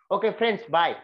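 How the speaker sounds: curt, careless goodbye; rude goodbye. Shown as a demonstration. Teacher shows a rude way of leaving, curt. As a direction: brush them off quickly. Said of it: "it's a rude way of going".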